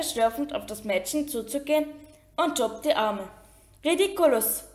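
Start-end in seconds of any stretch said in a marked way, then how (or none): 3.8-4.6 cried out. A narrator's reading. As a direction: cast the spell in a restrained cry. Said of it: "schrie Parvati". (verhaltener, hoher Ausruf)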